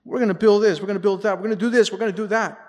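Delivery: high, rattled-off mock pledges; mock politician on the stump; promising politician. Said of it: "Good politicians, huh?".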